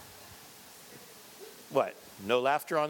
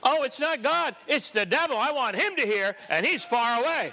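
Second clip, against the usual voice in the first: higher-pitched, forceful comeback; emphatic retort; 6 semitones higher than usual. Acted. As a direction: answer back with conviction, pitched up. Praying man's acted emphatic retort.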